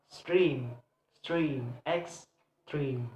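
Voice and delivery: STREME of EXTREME isolated, then EX, pause, TREME; second-syllable stress. Shown as a demonstration. Teacher showing word stress, EXTREME weighted on TREME. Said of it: "placed on the second syllable".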